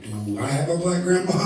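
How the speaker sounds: a hint of clueless white guy; white people impression. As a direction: ask it with clueless innocence. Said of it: "white people being like".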